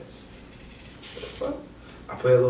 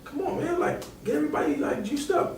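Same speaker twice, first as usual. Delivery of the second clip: higher, laughing coach voice urging him; coach egging him on; 3 dB quieter than usual. Retold or imitated. Coach at team dinner asks Cash for jokes, laughing and high. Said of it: "He's like".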